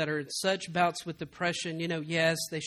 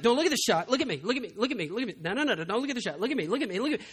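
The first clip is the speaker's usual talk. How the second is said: put-on soothing a child; 3 semitones higher, much faster than usual. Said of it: "it's like".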